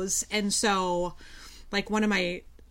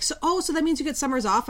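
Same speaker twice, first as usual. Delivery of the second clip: higher, quicker imitation of a naive questioner; retold naive assumption; 7 semitones higher, faster than usual. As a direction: mimic someone jumping to a conclusion, pitched up. Retold naive question about summers off.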